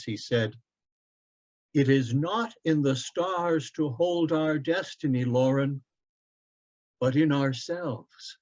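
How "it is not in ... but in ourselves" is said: reverent, slowing at the end; father quoting Shakespeare to his son, reverently; special reverence. Acted. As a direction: speak it like a sacred truth. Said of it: "lifting his voice to speak with a special reverence".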